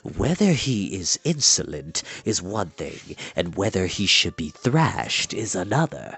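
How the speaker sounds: put-on low, slow, calm old man's voice; unperturbed old enchanter. Old enchanter rebuking the prince, low and calm. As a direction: settle him with quiet authority.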